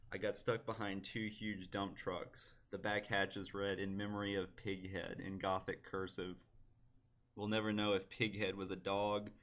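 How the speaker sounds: understated poetry reading, close to everyday speech; poem reading. Acted. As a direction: read your poem out evenly, without drama. Reads own poem aloud.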